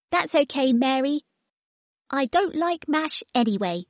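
put-on high, cheeky little-girl voice; baby voice. Baby tells the children she needs no bib, high and cheeky. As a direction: play a bossy toddler talking. Baby's voice.

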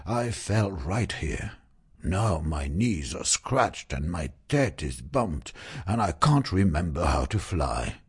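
lightly voiced flustered dragon, tumbling words; babbling dragon. Douglas the dragon explains his crash to Zoe, babbling lightly. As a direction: babble it nervously, a hint of a dragon. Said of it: "babbled le dragon".

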